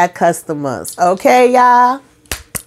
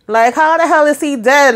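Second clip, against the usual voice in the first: shocked disbelief; 8 semitones higher than usual. Real, not acted. Host reacting to Hayden's death, high disbelief.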